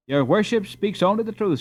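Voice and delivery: bowing and scraping; humbly agreeing; deferential. Acted. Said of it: "with great deference".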